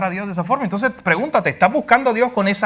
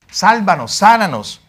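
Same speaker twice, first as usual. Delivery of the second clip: a mildly raised plea; imitated crowd cry; 4 dB louder than usual. Crowd crying to Jesus for healing, mildly raised voice. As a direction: call out like people begging for healing. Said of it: "Aquella gente le gritaba".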